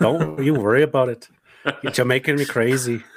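lightly put-on Jamaican accent; playful, slightly Jamaican lilt. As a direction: joke back in mock Jamaican. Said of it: "Jacob, you sound Jamaican".

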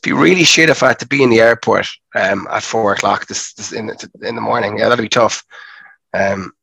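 hoarse from a sore throat; sick, gravelly throat. Real, not acted. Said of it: "even if you sound a bit gravelly".

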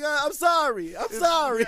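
loud, high mock apology; frantic apology. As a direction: shout a hammed-up sorry while fleeing. Retold man apologising as he flees.

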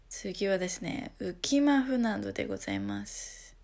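lightly voiced train conductor; a hint of announcing the next station; train announcement. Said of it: "車内アナウンスみたいになってきましたね".

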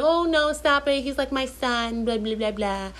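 high-pitched mock of a protesting friend; friend's protest. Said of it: "And she's like".

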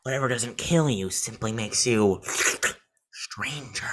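lightly hammed-up Joker with a dramatic pause. Podcaster quoting the Joker's famous line, light impression. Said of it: "imagine the Joker going off".

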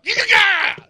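high, loud playful yell; hammed-up shout to scare off coworkers; mock battle cry. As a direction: bellow it like a taunt across the parking lot. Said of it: "I give 'em the look".

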